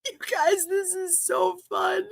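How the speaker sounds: high, delighted gushing into a laugh; high giddy gush and laugh; squealing glee. Real, not acted. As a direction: squeal to the viewers with joy. Thrilled on live.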